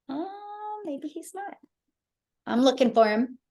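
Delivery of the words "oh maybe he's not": soft, high-pitched thinking aloud; doubtful aside. Real, not acted. Host searching the call for a missing guest, quiet doubtful aside. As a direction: trail into a quiet, high "maybe".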